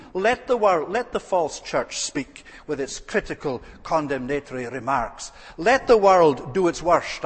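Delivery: thundering pulpit defiance; rising preacher's cry. Real, not acted.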